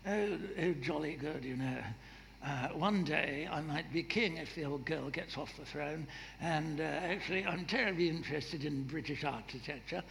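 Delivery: a lightly done posh royal voice; a bad, mild rip-off of Prince Charles; Prince Charles impression. Preacher mimics Prince Charles fiddling with his ring, lightly posh. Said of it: "a bad rip-off of Prince Charles".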